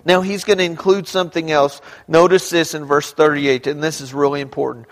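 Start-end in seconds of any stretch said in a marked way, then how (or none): none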